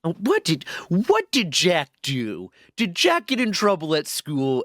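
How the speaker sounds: a hint of a worried old lady; imitating grandma. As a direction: play a fretting grandmother, gently worried. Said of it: "And she's like".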